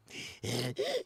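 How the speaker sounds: mock wheezy laugh noise; imitated wheeze. Imitating Joanne's wheeze at milkman, mock wheezing.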